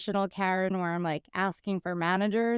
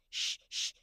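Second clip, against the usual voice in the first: voiceless hushed shh; shushing whisper; 10 dB quieter than usual. Retold or imitated. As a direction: hush your friends in a whisper. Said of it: "they were like".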